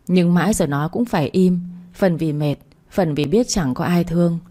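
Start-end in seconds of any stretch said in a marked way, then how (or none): none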